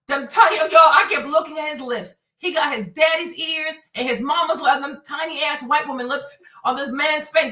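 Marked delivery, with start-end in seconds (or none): 0.1-6.4 louder, worked-up ranting; loud excited rant. Real, not acted. Vlogger ranting to viewers about lips, loud.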